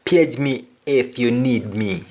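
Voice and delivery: Jamaican English, Page stressed; Jamaican phrase. Shown as a demonstration. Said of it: "Meaning, call me if you need me".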